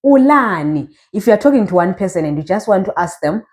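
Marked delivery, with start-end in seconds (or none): 0.0-0.9 teacher modelling "Ulani", long middle vowel; model pronunciation. Shown as a demonstration. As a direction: say "Ulani" for a learner to repeat. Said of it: "Say it after me".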